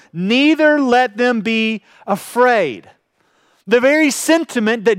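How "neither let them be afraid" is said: slow, solemn reading of the verse; measured pulpit scripture reading. Acted. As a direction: read each phrase slowly and let it land. Reads verse twenty-seven slowly.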